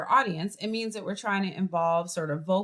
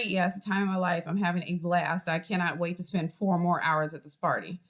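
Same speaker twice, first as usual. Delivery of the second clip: sarcastic; 2 semitones lower than usual. Shown as a demonstration. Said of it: "you can say exactly the same thing".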